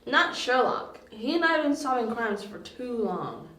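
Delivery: high-pitched, protesting defense of a friend; adamant, high-voiced objection; insistent denial. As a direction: stand up for your friend, voice pushed high. Defends friend against the accusation.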